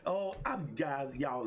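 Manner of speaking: can barely contain the excitement; bursting with excitement. Real, not acted. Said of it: "I am just so excited".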